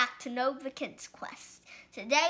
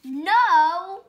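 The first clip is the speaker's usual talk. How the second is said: loud sudden protest; shouted no; 5 semitones higher, 10 dB louder than usual. Acted. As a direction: bark out a loud no. Pigeon protests.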